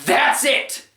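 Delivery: indignant, drawn-out venting; fed-up rant. Real, not acted. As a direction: punch out each complaint in disbelief. Fed-up rant about the movie.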